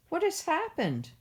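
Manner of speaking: rising high in shocked disbelief; dismayed wondering. A narrator's reading. Wangari, home again, finds the trees gone: high dismayed question. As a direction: let the question leap up in alarm. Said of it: "she wonders".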